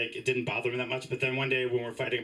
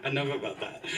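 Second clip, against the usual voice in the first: said through a laugh. Real, not acted. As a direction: wave the topic off, giggling.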